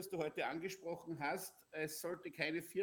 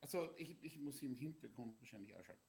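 on speakerphone; 3 semitones lower, 7 dB quieter, faster than usual. Real, not acted. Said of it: "und einen Widerhall haben wir".

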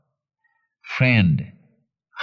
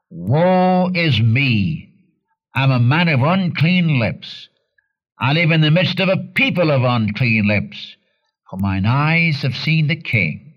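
anguished cry; 4 semitones higher than usual. Acted. Preacher voicing Isaiah who has seen the Lord, lightly raised lament. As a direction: cry out like a prophet undone before God. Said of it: "He cried out".

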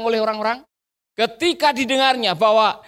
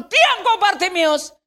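high, drawn-out command to hush; angry crowd; 7 semitones higher than usual. Acted. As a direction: shout him down, pitched up. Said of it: "Banyak orang bilang".

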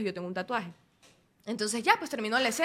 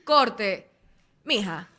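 director yelling cut; 2 semitones higher, 6 dB louder, much slower than usual. Retold or imitated. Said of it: "y el man".

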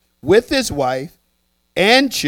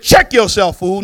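the brother; 2 semitones higher, 5 dB louder than usual. Acted. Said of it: "watch the brother".

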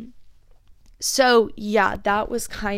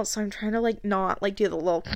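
ordinary talk

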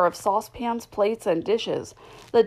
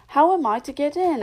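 higher and louder, insistent; 7 semitones higher, 4 dB louder than usual. A narrator's reading. Alice demanding entry from the footman, louder. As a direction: raise your voice to be heard. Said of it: "asked Alice in a louder tone".

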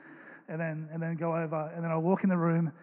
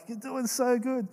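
put-on higher, slow praise to a baby; encouraging baby talk; 6 semitones higher than usual. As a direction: cheer the baby on gently. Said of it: "we're just like".

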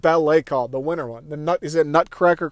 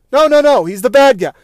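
excited reversal; 8 semitones higher, 5 dB louder than usual. Retold or imitated. Retold changing mind about Goodman.

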